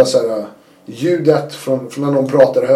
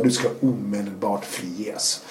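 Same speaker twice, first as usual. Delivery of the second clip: stiff official announcement; 5 semitones lower, 8 dB quieter, much slower than usual. Retold or imitated. Prison chiefs announce release.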